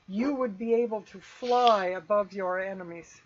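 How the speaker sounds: measured, lilting vision narration; game master's scene setting. Acted. Game master describing a tempting vision to players, evocative storytelling. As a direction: paint the dream in swelling phrases.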